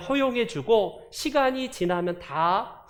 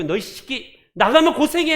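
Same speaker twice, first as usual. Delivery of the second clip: scolding father; 5 semitones higher, 5 dB louder than usual. Retold or imitated. Father scolding prodigal son.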